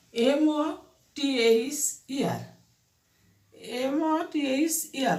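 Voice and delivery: slow, letter-by-letter spelling. Shown as a demonstration. Teacher spelling "mother" for pupils, slowly letter by letter.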